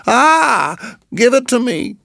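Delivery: high eager snake voice; pleading snake. Acted. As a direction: beg for the egg. Nagaina pleading.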